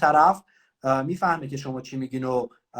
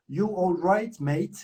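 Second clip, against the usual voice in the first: British greeting; 4 semitones higher, much slower than usual. Shown as a demonstration. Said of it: "بعدها فهمیدم که میگه".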